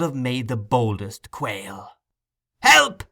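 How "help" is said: high, loud shriek for help; a boy shrieking for rescue; piercing shriek. A narrator's reading. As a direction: tear the air with it. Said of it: "shrieked the boy in a voice that rent the air".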